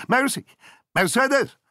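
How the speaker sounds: loud high call down the corridor. A narrator's reading. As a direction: shout the maid's name to be heard far off. Jack calls the maid down corridor. (głośne wołanie na korytarz)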